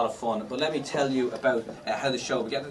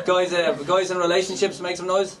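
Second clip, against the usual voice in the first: loud, higher call to the room; crowd hype; 5 semitones higher, 5 dB louder than usual. Real, not acted. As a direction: whip up the singles. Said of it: "hypes the crowd".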